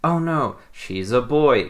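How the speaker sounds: high mock gasp of shock. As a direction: ham up the twist reveal. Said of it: "in quotes".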